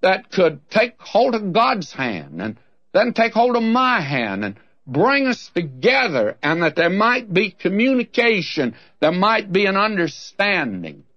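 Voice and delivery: a touch of Job's heartfelt cry. Retold or imitated. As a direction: voice Job's longing plea to God. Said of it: "Job was crying out".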